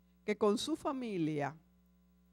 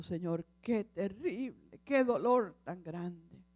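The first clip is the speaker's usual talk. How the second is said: weeping; 2 semitones lower, slower than usual. Acted. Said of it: "él llorando le dijo".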